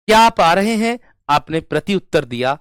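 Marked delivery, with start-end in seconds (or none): 0.1-1.0 "क्या आप आ रहे हैं" high and loud; question on the phone. Shown as a demonstration. Teacher acting out asking over the phone, questioning intonation. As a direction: ask "क्या आप आ रहे हैं" in a raised, carrying voice. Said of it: "मैंने कहा phone करके".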